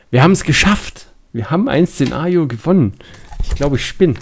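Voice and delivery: excited. Real, not acted. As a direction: cheer the win. Winning the scenario.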